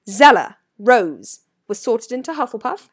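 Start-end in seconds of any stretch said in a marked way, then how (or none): 0.1-1.4 very loud, slow roll call; McGonagall calling out. A narrator's reading. Professor summons the last first year, calling loudly. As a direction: call the name out across a hall.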